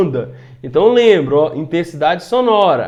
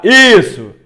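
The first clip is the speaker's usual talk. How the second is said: louder burst to show a strong sound; strong sound demo; 3 semitones higher, 8 dB louder than usual. Shown as a demonstration. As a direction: push out the energy, say it loud. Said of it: "agora foi mais forte a energia".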